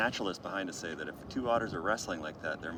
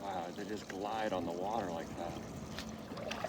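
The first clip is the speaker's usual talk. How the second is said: wildlife watching whisper; 4 semitones lower, 8 dB quieter, slower than usual. Real, not acted. Awed watching otters, hushed.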